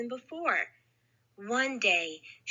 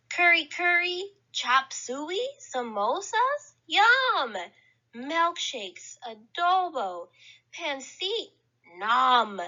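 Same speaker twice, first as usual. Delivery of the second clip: a hint of a greedy witch, higher, smacking through the foods; greedy gobbling witch; 3 semitones higher than usual. Hungry witch devouring the picnic food, lightly voiced and higher. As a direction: savour each dish like a hungry witch.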